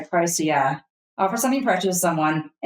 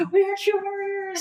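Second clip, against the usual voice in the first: mock screaming; 12 semitones higher than usual. Player stalking around with the warrior, high mock scream. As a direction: playfully scream it high, held back. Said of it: "stalking around with him and screaming".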